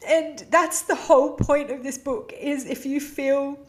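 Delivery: still teary. Real, not acted. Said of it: "it's so emotional".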